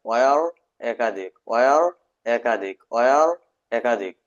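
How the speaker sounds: slow, stretched repetition; slow repeated drill. Shown as a demonstration. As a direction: chant it slowly for the class. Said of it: "এই দেখেন". (ধীরে ধীরে বারবার বলা)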